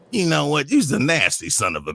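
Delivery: imitating an exasperated old man; fed-up insult. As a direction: spit the insult out in a low growl. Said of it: "he says".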